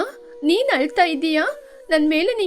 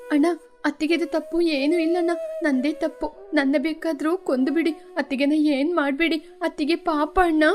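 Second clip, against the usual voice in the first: softer, timid plea to her brother; frightened pleading; 6 dB quieter than usual. Acted. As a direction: beg quietly, scared for her sister-in-law. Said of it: "Parvati ಹೆದರ್ಕೊಂಡು". (ಹೆದರಿ ಮೆಲ್ಲಗೆ ಬೇಡಿಕೊಳ್ಳುತ್ತಾ)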